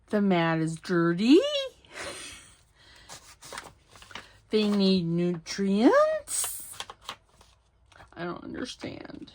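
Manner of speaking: every statement ends in a rising question tune; mock uptalk. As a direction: imitate a speaker who turns every sentence into a question. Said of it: "it literally sounds like everything is a question".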